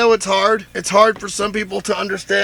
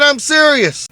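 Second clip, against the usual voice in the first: hammed-up indignation, higher and louder; mock serious; 9 semitones higher, 4 dB louder than usual. Still teasing the worker, mock serious insistence. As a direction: insist with pretend outrage. Keeps up fake complaint.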